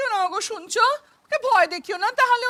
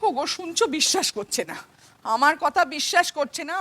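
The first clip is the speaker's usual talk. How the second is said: tearful plea; 4 semitones lower than usual. Acted. Mother pleads, daughter locked inside.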